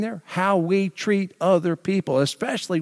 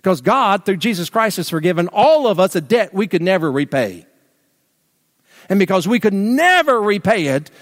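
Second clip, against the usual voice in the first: louder, higher, pressing every phrase home; full-force preaching; 5 semitones higher, 5 dB louder than usual. Real, not acted. Pastor urging the congregation toward forgiveness, full-force preaching. Climax of the sermon.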